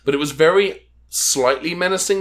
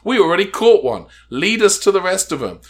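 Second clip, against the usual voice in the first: lightly acted villain, higher and louder; mock villain demand; 7 semitones higher, 6 dB louder than usual. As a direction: give a hammed-up captor's order.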